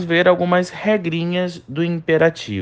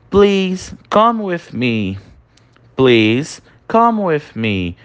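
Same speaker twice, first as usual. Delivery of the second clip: gentle polite request; much slower than usual. Shown as a demonstration. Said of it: "fica um pedido de forma mais suave".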